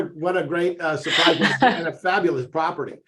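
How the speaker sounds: laughing while talking; words bubbling with a chuckle. Real, not acted. Host laughs at big budget.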